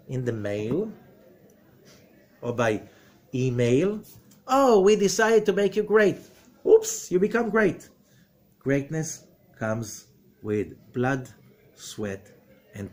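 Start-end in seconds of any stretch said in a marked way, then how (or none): 4.5-7.9 mock announcement. Mocking an easy greatness letter.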